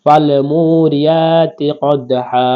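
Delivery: slow, drawn-out Quran recitation; measured Quranic recitation. Shown as a demonstration. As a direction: chant it slowly like tajweed practice. Reciting the verse.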